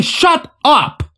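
high, cutting exclamation; venomous outburst. A narrator's reading. Lucy silences Owen's babbling, venomous outburst. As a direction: cut them off furiously. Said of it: "snapped at him with the venom".

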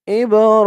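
"ইব র" with a lengthened final vowel; "ইব র" ending on a measured long vowel; one-alif stretch. Shown as a demonstration. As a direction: hold the vowel of "র" in "ইব র". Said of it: "র এক আলিফ টান".

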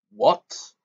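sudden high-pitched exclamation; startled yell. A narrator's reading. Boy hearing his uncle's cover story, yelling. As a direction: jump up high in outraged disbelief. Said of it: "Harry yelled".

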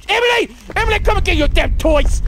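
high, urgent call. Real, not acted. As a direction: call Emily over, high and annoyed. Calling out to Emily.

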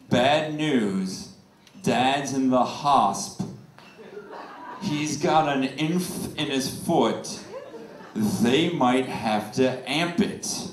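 slow, flat reading of the text; slow deadpan text reading. Retold or imitated. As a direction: read it slowly, deadpan. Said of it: "the actual text read".

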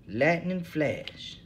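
drawn out slow and heavy. Acted. Bum asked to say something, very slowly. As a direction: let each word hang.

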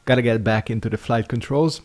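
speaking through a yawn. Real, not acted. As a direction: say it while yawning. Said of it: "And now I'm yawning again".

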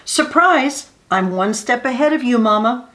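put-on playful child voice; bright surprise from a boy; excited child. Child teases mother.

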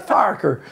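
Farquhar as FARK-er, W dropped; Scottish pronunciation. Retold or imitated. Magician showing how Scots say the name, Farquhar as FARKER. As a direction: say Farquhar like the swear-word sound-alike FARKER. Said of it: "That's how they say it".

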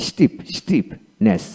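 slow স্টিফনেস, split before the ending; broken into parts. Shown as a demonstration. Teacher building স্টিফনেস for learners, slow and in parts. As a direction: separate স্টিফ from its ending, slowly. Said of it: "এইভাবে ভেঙে ভেঙে".

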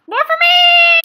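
high, loud greedy glee; gleeful shout. Acted. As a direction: cry out happily, keeping it all. Gleeful after offer refused.

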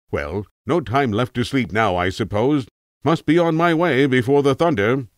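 lightly voiced cultured tramp, faintly ominous; a hint of a refined old vagrant warning. A narrator's reading. Tramp speaks in the story.

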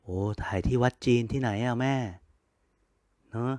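soft, tender words to a late mother's photo; missing mother. Real, not acted. Son speaking to his late mother's photo, soft and tender. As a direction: speak gently, as if to someone you miss. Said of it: "คิดถึงเลย".

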